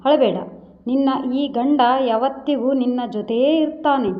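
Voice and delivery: mildly tender husband comforting his wife; a light, understated gentle reassurance; ಮೃದುವಾಗಿ ನಗುತ್ತಾ ಸಮಾಧಾನಿಸುವ ಧ್ವನಿ; softly smiling. Acted. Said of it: "Ravi ಮೃದುವಾಗಿ ನಗುತ್ತಾ".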